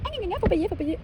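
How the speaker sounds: imite des loueurs qui réclament; voix moqueuse, plus aiguë; loueurs râleurs. Retold or imitated. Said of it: "ils sont en mode". (imitation moqueuse de loueurs)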